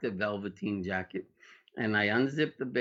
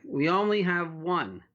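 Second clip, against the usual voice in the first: high, raised call from the back; yelled reply; 7 semitones higher, 3 dB louder than usual. Retold or imitated. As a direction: call it out from the stockroom. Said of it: "they yell back".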